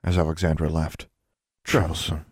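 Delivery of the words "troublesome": mild, resigned sigh. A narrator's reading. Constance comments as Alexandra leaves, sighed. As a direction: let it out with a sigh. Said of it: "sighed Constance in forbearance".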